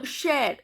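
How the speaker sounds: slow "share" with a sounded r; "share" as a careful French model; pronounced final R. Shown as a demonstration. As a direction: say "share" slowly, ending on R. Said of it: "R is also pronounced".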